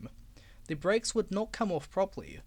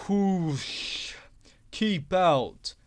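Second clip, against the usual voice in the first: louder blocking shout; barring shout; 6 dB louder, much slower than usual. Acted. Engines barring Duck from the shed, loud. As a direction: shout him away.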